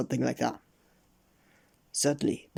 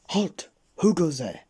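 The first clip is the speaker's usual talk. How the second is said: loud, higher challenge; sentry's cry; 4 semitones higher, 5 dB louder than usual. A narrator's reading. Goblin sentry at the gate, crying a challenge. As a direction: cry out like a guard. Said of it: "cried the goblin sentry".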